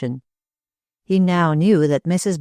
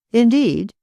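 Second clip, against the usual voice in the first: nervous; 7 semitones higher, 4 dB louder than usual. A narrator's reading. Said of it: "said Hilliston nervously".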